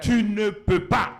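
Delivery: slow, loud Saul voice; doubting Saul. Retold or imitated. Preacher voices Saul telling David he cannot fight. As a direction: draw it out as a king dismissing a boy. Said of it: "Saül dit à David".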